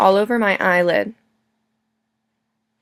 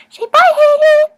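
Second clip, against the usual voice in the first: calling out; 9 dB louder than usual. Real, not acted. Calling to child for goodbye.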